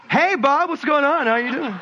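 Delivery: mock cheery phone greeting; suddenly friendly. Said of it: "go from livid and angry and mad to".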